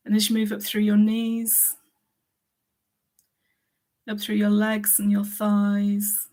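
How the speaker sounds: calm body-scan guidance, pausing between phrases; guided meditation. Acted.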